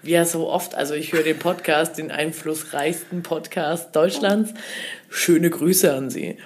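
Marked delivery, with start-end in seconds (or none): 5.1-6.4 low, slow, laid-back greeting; imitated idol. Comedian sends greetings to a fan's friend, low imitation. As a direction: imitate him slowly in a low voice. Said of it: "Und dann sagt er noch so".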